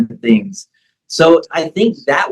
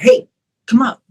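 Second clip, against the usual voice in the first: pushing coach; 3 semitones higher, faster than usual. Retold or imitated. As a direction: get on him to wake him up. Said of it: "You're like".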